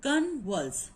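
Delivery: "Convulse" in two separate beats, con, vulse; split into syllables. Shown as a demonstration. Teacher dividing a word for students, "Convulse" syllable by syllable. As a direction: break "Convulse" clearly between con and vulse. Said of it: "First one con and the second one is vulse".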